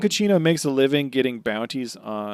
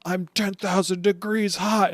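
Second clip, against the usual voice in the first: slow, raised boast; boasting villain; 7 semitones higher, slower than usual. Retold or imitated. Voicing villain boasting of heat. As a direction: brag it slowly. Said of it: "Dunkachino's like".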